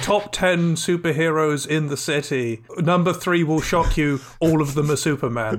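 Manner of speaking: hyped listicle headline voice; clickbait video narrator. Acted. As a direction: sell it like a clickbait title.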